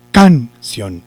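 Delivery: "canción" split, loud CAN, then weak ción; wrong stress on CAN. Shown as a demonstration. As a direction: hit the first syllable of canción, drop the second. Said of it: "si llevara el acento en la sílaba can". (canción acentuada en can, separando sílabas)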